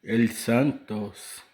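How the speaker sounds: drawn-out mock Spanish accent. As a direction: stretch it slowly like a Spanish announcer. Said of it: "todo espanhol para el vídeo".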